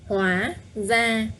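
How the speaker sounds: hóa with a rising tone, ra level, slowly; slow and careful. Shown as a demonstration. Teacher slowly modelling hóa ra tones. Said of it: "Up tone, no tone".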